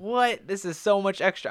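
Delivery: high, loud incredulous protest; retold outburst of dismay; overwhelmed disbelief. Overwhelmed by having to memorize lyrics.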